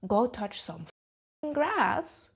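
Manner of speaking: slow, drawn-out exasperation; exasperated. Real, not acted. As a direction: spell it out to the fans. Exasperated at fans.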